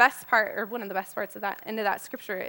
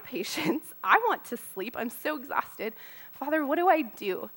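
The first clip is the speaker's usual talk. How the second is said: weary prayer. Retold or imitated. Exhausted prayer in the hallway.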